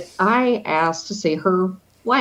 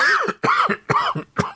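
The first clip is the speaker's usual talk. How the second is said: coughing fit. Real, not acted. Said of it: "I'm coughing because my dr-, my throat is a little bit dry".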